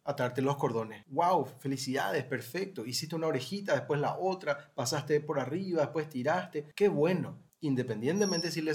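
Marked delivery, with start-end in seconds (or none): 1.1-7.4 excited praise. Shown as a demonstration. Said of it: "Por ejemplo".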